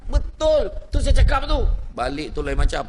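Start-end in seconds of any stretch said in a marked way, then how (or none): 0.1-1.6 emphatic ustaz. Acted.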